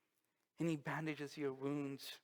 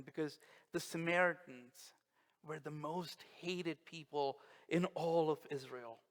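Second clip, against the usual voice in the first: usual speaking voice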